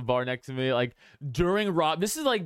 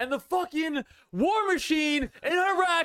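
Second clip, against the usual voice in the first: very high-pitched, slow, drawn-out, acted yelling; 13 semitones higher than usual. Retelling a late-night talk outside a bar: imitating Scott Horton yelling. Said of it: "just yelling outside of a bar".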